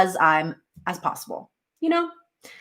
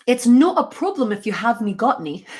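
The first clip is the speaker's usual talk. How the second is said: attempted Scottish accent; lightly attempted Scottish lilt; 2 semitones higher than usual. Shown as a demonstration. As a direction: have a go at a learner's Scottish accent. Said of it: "I learned how to do a Scottish accent".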